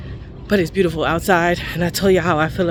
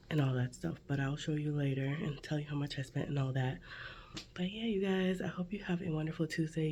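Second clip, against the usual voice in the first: whispering; 4 semitones lower, 17 dB quieter than usual. Real, not acted. Whispers all morning clip.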